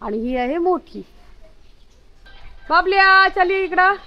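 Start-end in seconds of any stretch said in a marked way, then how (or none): 2.7-3.9 high, loud call to a dog. Real, not acted. Woman calling her dog Babalya to come here, loud and high. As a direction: call the dog over from across the yard.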